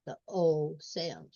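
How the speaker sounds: stretched O, slow; slow O sound. Shown as a demonstration. Teacher modelling the O sound, slowly. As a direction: draw out the O in "O sound". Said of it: "it doesn't have an O sound".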